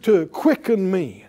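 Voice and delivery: loud, high, commanding prayer over the body; fervent loud healing prayer; preaching at full force. Acted. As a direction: command the organs to heal with full preaching fire.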